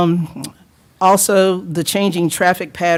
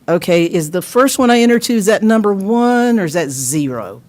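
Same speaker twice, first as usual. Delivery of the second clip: higher-pitched puzzled driver; mock confusion; 4 semitones higher than usual. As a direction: play a driver puzzling out directions.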